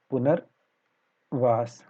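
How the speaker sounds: slow spelling demo. Shown as a demonstration. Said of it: "अगला है हमारा पुनर्वास".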